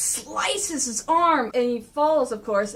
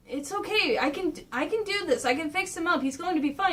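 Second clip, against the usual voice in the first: lightly voiced higher reassurance; reassuring Donnie; 4 semitones higher, 4 dB quieter than usual. Donnie calming his brother, lightly voiced reassurance. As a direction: insist it's fine, pitched up a little. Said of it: "Donnie's going like".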